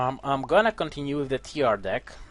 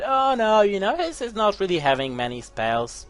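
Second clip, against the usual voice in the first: mocking the opponent; 5 semitones higher than usual. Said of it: "I love when they do that".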